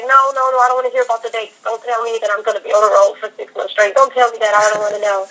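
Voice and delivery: acted-out pleading not to be told; homebody's protest. Homebody self on the couch refusing to hear tour dates, mock protest. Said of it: "that homebody Brooke that wants to just".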